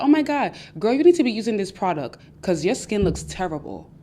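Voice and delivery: faux concern masking an insult; mock insulting advice. Frenemy pushing a product with a mild mock sneer. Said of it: "always going to insult you".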